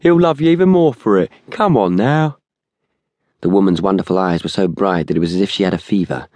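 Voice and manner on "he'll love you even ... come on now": high-pitched, insistent coaxing; pushy persuasion in a raised voice; urging. A narrator's reading. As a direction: keep pressing as the tall man. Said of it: "urged the tall man".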